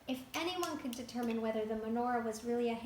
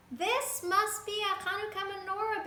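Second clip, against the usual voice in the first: high, louder amazed Beryl; Beryl exclaiming; 8 semitones higher, 5 dB louder than usual. A narrator's reading. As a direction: announce the discovery in awe. Beryl voiced in told story.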